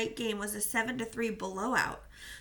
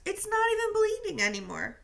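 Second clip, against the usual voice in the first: high, pleading protest; injured captain arguing with coach; 11 semitones higher than usual. Acted. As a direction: push back, voice up high. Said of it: "Victor continued to protest".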